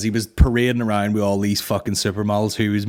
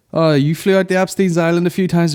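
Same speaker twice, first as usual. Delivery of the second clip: accusing questioner; 7 semitones higher, 5 dB louder than usual. Acted. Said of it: "drag Trump into this and they're like".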